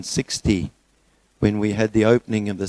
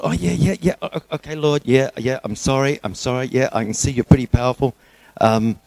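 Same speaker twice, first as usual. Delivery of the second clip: nervous pleading; 3 semitones higher than usual. Acted. Man nervously appeases God.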